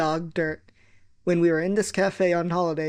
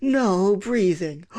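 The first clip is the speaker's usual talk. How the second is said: strict teacher order; 3 dB louder, much slower than usual. Retold or imitated. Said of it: "Once more from the beginning".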